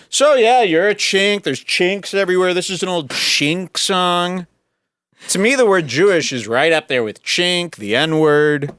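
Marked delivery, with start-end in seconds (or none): 0.1-4.5 mocking Chinese caricature voice. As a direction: sneer it out in a high mocking voice. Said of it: "if I was up in China right now going".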